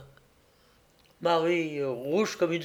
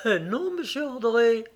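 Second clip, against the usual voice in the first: voix de jeune fille, bien plus haute; protestation rassurante; 7 semitones higher than usual. A narrator's reading. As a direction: protester gentiment pour le consoler. Marie le rassure encore. (gentille dénégation)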